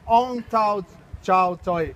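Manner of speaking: "Ong Tao Chao Toi" spoken slowly and carefully in Vietnamese, with a laugh. Shown as a demonstration. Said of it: "I'll try to say it in Vietnamese".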